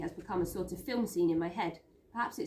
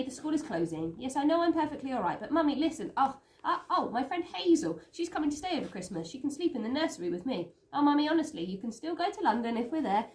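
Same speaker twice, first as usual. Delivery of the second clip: higher, louder, exasperated schoolgirl on the phone; Daisy pleading with Mummy; 5 semitones higher, 4 dB louder than usual. Acted. Daisy bargains with her mother by telephone, raised and impatient. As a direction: coax her mother, pitched up and insistent.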